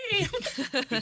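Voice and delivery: high, loud, laughing "Hey!" of a guy in the club; hyped clubgoer shout. Retold or imitated. Clubgoer hearing a rapper, loud laughing whoop. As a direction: throw out a big party whoop through a laugh.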